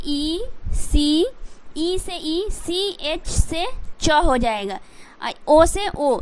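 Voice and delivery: letters drawn out one by one; slow spelling out. Shown as a demonstration. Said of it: "इस तरीके से पढ़ोगे". (धीरे धीरे अक्षर बोलना)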